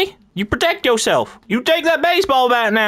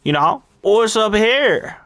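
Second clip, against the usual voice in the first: put-on Farmer Randall accent. Gamer in character as a country farmer. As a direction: play a rural farmer calling everyone feller.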